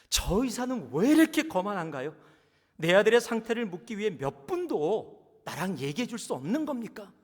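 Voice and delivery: loud, high indignant yell; angry complaint. Acted. Father complaining loudly about the doctor, angry and high. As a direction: rail at the arrogant doctor. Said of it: "화가 납니다".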